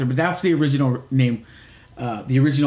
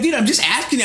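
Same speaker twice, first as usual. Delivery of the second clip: puzzled friend; 9 semitones higher, faster than usual. Retold or imitated. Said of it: "They'd be like".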